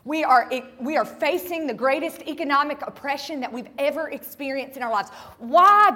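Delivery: desperate crying out. Retold or imitated. People on their knees crying out to God, desperate and loud. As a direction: cry out to heaven as a hopeless people. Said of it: "looking at God screaming".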